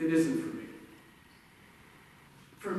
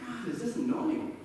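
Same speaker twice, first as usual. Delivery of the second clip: mock annoyance; 5 semitones higher than usual. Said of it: "And I'm sitting there going".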